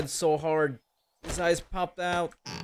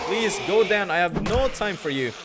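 frustrated pleading; 4 semitones higher, 5 dB louder than usual. Real, not acted. Fighting a tough enemy.

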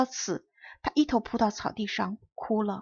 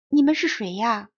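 a louder, astonished question; surprised question; 5 dB louder than usual. Acted. Little prince meets a garden of roses, surprised question. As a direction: ask in open surprise. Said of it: "小王子惊讶地问他们".

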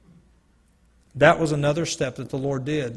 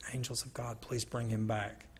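quiet whisper; 5 semitones lower, 16 dB quieter than usual. Retold or imitated. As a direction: murmur it so nobody hears. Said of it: "And so I whispered it".

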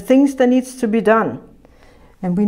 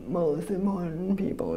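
mock self-important; 6 semitones lower, 13 dB quieter than usual. Mocking pompous elders.

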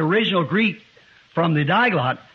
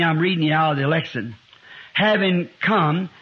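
scripture reading. Real, not acted. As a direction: read the verse out deliberately. Reads scripture aloud.

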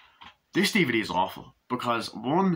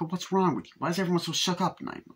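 nurse voice; 8 semitones higher, faster than usual. Retold or imitated. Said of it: "It's like".

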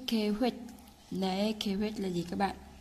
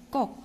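a stressed, determined "꼭"; emphasised "꼭"; 3 semitones higher, much faster than usual. Shown as a demonstration. Teacher showing resolve in the word, stress on "꼭". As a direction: punch "꼭" short and firm. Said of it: "꼭 này cũng nhấn mạnh lên một tí".

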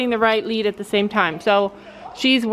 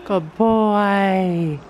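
praising a horse; 3 semitones lower, much slower than usual. Real, not acted.

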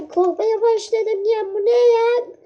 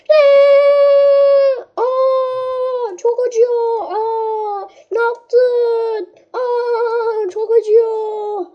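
higher, whimpering cries of pain; mock pained whining; 4 semitones higher, 3 dB louder, much slower than usual. Player hit in the game whines in mock pain. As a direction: whine as if it really hurts.

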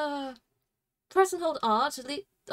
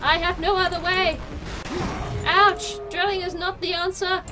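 loud, raised protest into a yelp; exasperated cry; 4 semitones higher, 4 dB louder than usual. Pretend. Player out of options in a fight, loud exasperated cry. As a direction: complain loudly as you take a hit.

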